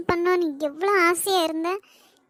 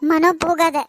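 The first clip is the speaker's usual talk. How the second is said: calling out; 5 dB louder than usual. Acted. Begging him not to leave.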